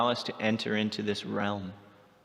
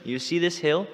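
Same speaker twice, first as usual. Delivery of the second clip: boastful Krishna; 7 semitones higher, 4 dB louder than usual. Retold or imitated.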